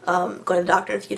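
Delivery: hoarse, stuffy sick voice. Real, not acted. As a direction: talk through a head cold. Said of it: "excuse my voice".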